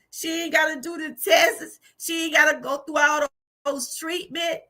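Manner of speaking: tearful, half laughing through crying; quoting her husband while crying with relief. Real, not acted. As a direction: let the tears and a laugh break in. Me and my husband both cried.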